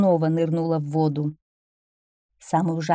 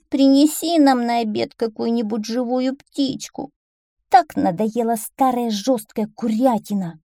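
higher-pitched pleading whine; whining fox cubs; 5 semitones higher, 4 dB louder than usual. Acted. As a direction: beg mother with a childish whine. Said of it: "захныкали лисят". (хныкающие, капризные лисята)

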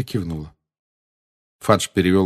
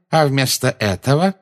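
high, excited, left hanging; gloating wonder; 6 semitones higher, 4 dB louder than usual. A narrator's reading. Minister cannot believe his luck, gloating. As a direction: raise the pitch and leave it unfinished.

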